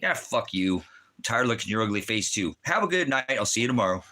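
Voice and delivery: lightly voiced boss, casual comeback; imitating the boss. Boss answers the mock insult, lightly voiced and casual. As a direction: toss the insult back, easygoing. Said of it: "what he says to me".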